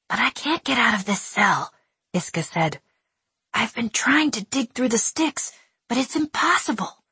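put-on a trapped child giving up; despairing boy. A narrator's reading.

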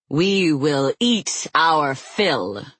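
slow, gloating exultation; exultant. Acted. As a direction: drag it out with relish. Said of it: "cried Deimos in exultation".

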